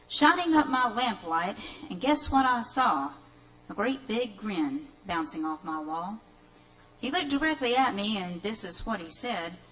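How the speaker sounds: lively spooky recital; poem reading. Acted. Reader recites The Devil's Grin to the audience, lively. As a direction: tell it like a tale by lamplight.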